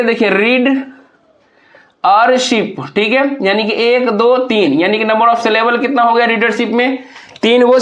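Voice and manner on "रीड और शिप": "रीड", a long pause, then "और शिप"; split into syllables. Shown as a demonstration. Teacher showing how readership divides, said in separated pieces. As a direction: break the word after "रीड", leaving a clear gap before "और शिप". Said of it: "रीडरशिप को किस तरह से तोड़ेंगे".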